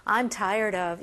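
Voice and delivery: 감정을 넣어서; with feeling. Shown as a demonstration. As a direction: sound really fed up. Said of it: "감정을 또 넣어야 되겠죠".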